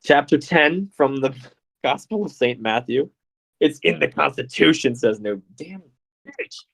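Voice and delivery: hammed-up American accent, swinging high; put-on American regional accent. Reading scripture as requested by chat, mock American regional accent. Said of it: "please read an American regional accent of your choosing".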